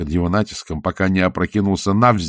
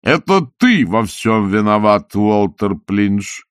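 accusing; slower than usual. Acted. Salzella blaming Walter.

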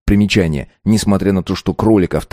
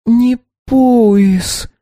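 muffled, face in the tablecloth; head on desk; 4 dB louder than usual. A narrator's reading. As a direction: mumble with face pressed to table. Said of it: "не отрывая лица от скатерти".

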